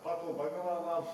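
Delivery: laughing, high Scottish "purple burglar alarm"; Scottish accent attempt. Shown as a demonstration. Host laughs through the Scottish tongue twister. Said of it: "Can you say it?".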